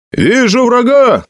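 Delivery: very high, drawn-out lookout's cry; yelling. A narrator's reading. Soldier ahead spots the enemy, yelling. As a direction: yell the sighting back down the line. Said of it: "завопил кто-то впереди".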